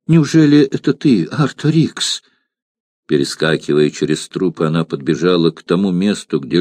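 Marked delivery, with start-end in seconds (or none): 0.1-2.2 higher, hopeful exclamation; joyful cry. Acted. Mirtsa joyfully cries out to the wounded Artorix. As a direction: cry out with sudden hope. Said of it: "радостно вскрикнула девушка".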